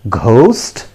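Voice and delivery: "ghost" with a breathy gh, asked as a question; the common mistaken "ghost", questioning rise; wrong pronunciation. Shown as a demonstration. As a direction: say "ghost" with an aspirated g, as if asking. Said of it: "That is the wrong pronunciation".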